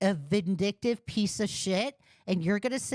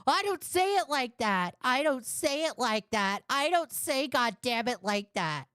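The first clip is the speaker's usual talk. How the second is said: lightly mimicked whiny protest, pitched up; mock his objection in a higher voice; Joe; 5 semitones higher than usual. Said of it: "And now he's saying".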